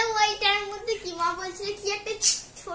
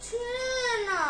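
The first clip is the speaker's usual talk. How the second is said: tearful protest; whimpering through tears; crying; 4 semitones higher, 3 dB quieter, slower than usual. Real, not acted. Child protesting tearing result.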